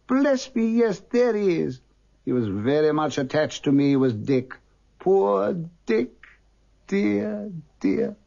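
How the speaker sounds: put-on high, fond old man; fond excitement. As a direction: remember a friend tenderly. Scrooge fondly remembers.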